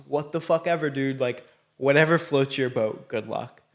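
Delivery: a hint of a shrugging officer; half-hearted mock indifference; dismissive cops.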